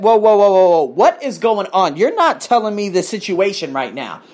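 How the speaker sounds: loud, alarmed whoa whoa. Retold or imitated. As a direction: stop her in alarm. Alarmed reply to boss.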